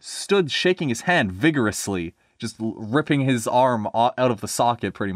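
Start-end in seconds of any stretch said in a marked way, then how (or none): 0.0-2.1 lively storybook reading; story narration. A narrator's reading. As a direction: read it to listeners with a measured lilt. Reads story aloud.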